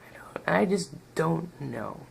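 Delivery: mock innocent whisper. Toy reviewer feigning ignorance to viewers, whispered. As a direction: whisper it like you know nothing. Coy denial, whispered aside.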